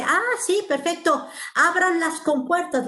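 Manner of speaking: cheerful order to open the floodgates; eager brain command. Retold or imitated. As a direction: call it out like flinging the gates open. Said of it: "la instrucción y dice".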